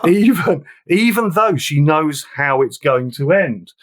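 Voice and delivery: fighting back tears mid-sentence; choked up. Real, not acted. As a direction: voice catching with real emotion. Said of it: "Oh, I'm choking up now".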